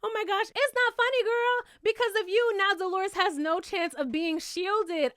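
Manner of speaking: a hint of a giggly, insincere sorry; mock giggly apology. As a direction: play a lightly ditzy girl saying sorry. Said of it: "giggling like".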